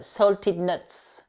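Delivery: salted nuts slow and careful; slow model. Shown as a demonstration. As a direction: spell out salted nuts slowly for learners. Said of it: "ça se dit".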